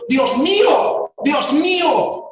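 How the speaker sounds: lento y fuerte, clamando a Dios; exclamación de dolor. Retold or imitated. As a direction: estira cada palabra como un grito desde la cruz. (clamor lento y doliente)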